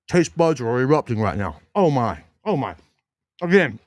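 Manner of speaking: talking through a mouthful of pizza; words around a bite of food; mouth full. Real, not acted. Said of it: "excuse me for talking with my mouth full".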